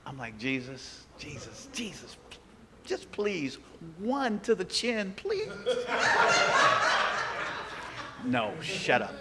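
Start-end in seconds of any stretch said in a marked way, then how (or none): 0.4-5.5 comic plea. Retold or imitated. Pleading to hit the boss. 5.5-8.2 laughter. Real, not acted. Audience laughter.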